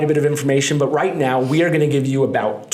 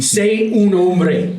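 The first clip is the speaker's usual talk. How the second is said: stern mom; 4 semitones higher, much slower than usual. Retold or imitated. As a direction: drag it out, demanding he man up. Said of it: "she's telling you to be a man".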